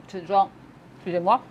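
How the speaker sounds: talking through a mouthful; words round a bite of food; mouth full. Real, not acted. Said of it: "parler avec la bouche pleine".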